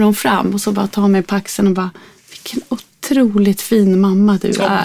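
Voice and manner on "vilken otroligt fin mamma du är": slow, sincere compliment; imitated admiring stranger, unhurried; heartfelt praise. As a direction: linger on it as a kind stranger would. Retold stranger praising the mother.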